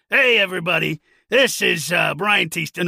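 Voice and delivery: loud, bright announcer-style hello; upbeat slate. Retold or imitated. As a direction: call out a cheery audition slate. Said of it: "no, no, that's not how I started it".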